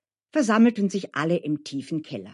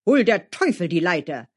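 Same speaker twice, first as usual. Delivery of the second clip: angry coachman cursing; angry cry; 5 dB louder than usual. Acted. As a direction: curse the ladder, mildly raised voice. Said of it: "schrie Dmitri". (verärgerter Ausruf)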